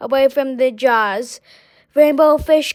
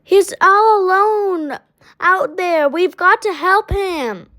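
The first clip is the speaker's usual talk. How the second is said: higher, pressing plea; urgent worry; 7 semitones higher than usual. A narrator's reading. Rainbow Fish urging friends to save the striped fish, urgent. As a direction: urge them to come help.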